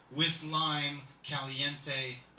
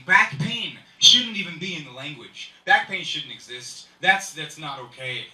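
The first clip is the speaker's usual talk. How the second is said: loud, slowed rant about back pain; 11 dB louder than usual. Real, not acted. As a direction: hammer out the complaint loudly.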